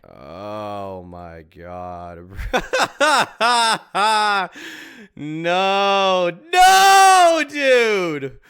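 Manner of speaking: real laughter breaking into a loud high no, no, dude; cracking up, then shouting no at the screen; laughing disbelief. Real, not acted. Streamer laughing loud at the rival's clip, real laughter.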